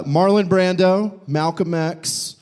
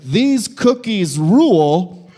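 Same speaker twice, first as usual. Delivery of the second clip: dad's Facebook post; 4 semitones higher, 4 dB louder, much slower than usual. Retold or imitated. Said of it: "And it just said".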